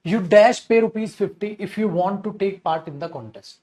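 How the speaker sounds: very slow, word by word reading; slow dictation. Shown as a demonstration. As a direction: dictate it slowly to students. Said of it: "question number four को देखिएगा".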